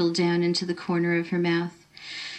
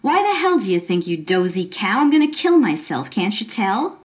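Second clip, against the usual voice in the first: angry outburst. Acted. Girl on the railing snapping at the nosy woman, angry. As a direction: throw it at her like an insult. Carolyn lashing out at stranger.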